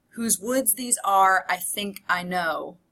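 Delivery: slow, measured poem reading; poem recitation. Real, not acted. Teacher recites Frost to class, slow poem recitation. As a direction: recite the opening line from memory, slowly.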